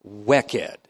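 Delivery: Wicked said the Vermont way, low and clipped at the end; one word in a light Vermont accent. Shown as a demonstration. Teacher repeating the Vermont word, light Vermont accent. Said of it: "you have to say it kinda like that".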